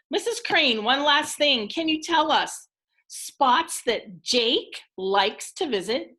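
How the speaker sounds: lightly voiced storybook detective; Dave questioning. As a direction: ask as an eager story detective, pitch lifted at first. Reads Dave questioning Missus Crane.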